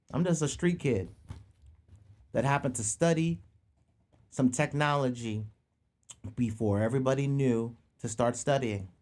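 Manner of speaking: talking while chewing chips; crunching chips. Real, not acted. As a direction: mouth full, crunching between words. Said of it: "Sorry for the crunching".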